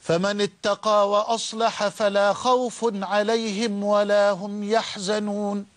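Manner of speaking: slow, measured chanting of the verse; slow Quran recitation. Acted. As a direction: recite it deliberately, drawing out each word. Verse quoted in sermon. (تلاوة قرآنية بطيئة ومرتلة)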